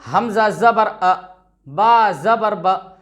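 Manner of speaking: crisp recitation with short final vowels; short vowel, read quickly. Shown as a demonstration. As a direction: end हमजा ज़बर अ and बा ज़बर ब on a quick, clipped vowel. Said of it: "जल्दी से पढ़ने का मतलब".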